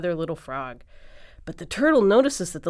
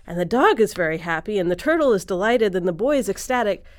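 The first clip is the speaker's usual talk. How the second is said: louder, lilting storyteller delight; delighted narration; 2 semitones higher, 7 dB louder than usual. A narrator's reading. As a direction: share the characters' joy, loudly. Narrating the animals' delight at the gift.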